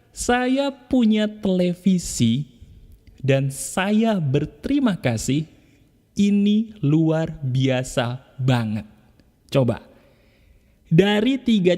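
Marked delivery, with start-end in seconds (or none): 0.1-8.8 slow, tender affirmation of thanks; slow grateful recital. Shown as a demonstration. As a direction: recite it slowly, meaning every word. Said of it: "Katakan lagi". (afirmasi syukur pelan dan tulus)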